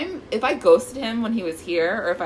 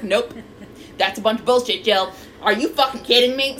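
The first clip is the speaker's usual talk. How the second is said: mock-indignant friend, building louder; universal imitation voice; 3 semitones higher, 4 dB louder than usual. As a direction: imitate a friend shooting it all down. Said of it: "That's just my universal one".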